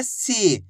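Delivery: "सी" with the ई held long; long drawn-out ī. Shown as a demonstration. Teacher showing learners how सा becomes "सी", vowel drawn out. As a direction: stretch the vowel in "सी". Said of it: "बड़ी ई की मात्रा को खींच के पढ़ा जाता है".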